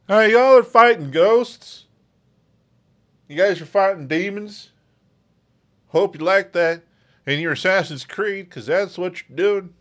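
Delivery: mock a French game publisher in a French accent. Podcaster mocking Ubisoft's ghost fights in a French accent. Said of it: "Supposed to be French".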